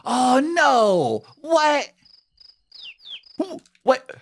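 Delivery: high, loud whining complaint. Real, not acted. Can't kiss inside box.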